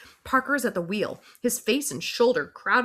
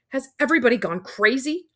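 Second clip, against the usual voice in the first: louder, higher demand; 6 semitones higher, 4 dB louder than usual. Acted. Breathless teacher demanding an answer from the students, loud. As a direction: challenge the group. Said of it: "I demand, panting from the long sprint".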